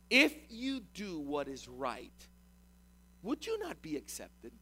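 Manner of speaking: slow, deliberate rhetorical question; measured confrontation, slowly put; rhetorical challenge. Acted. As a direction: weigh each word, then let the question drop. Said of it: "That's a rhetorical question".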